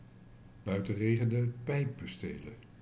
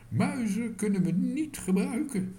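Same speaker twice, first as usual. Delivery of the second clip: firm; 11 semitones higher, 6 dB louder than usual. A narrator's reading. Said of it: "zei tante Mies beslist".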